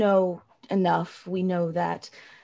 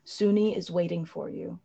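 reassuring. Acted. Azara consoling the elf, lightly voiced and tender.

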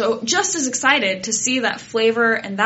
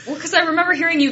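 laughing; 8 semitones higher, much faster than usual. Real, not acted. Laughing while recalling the moment.

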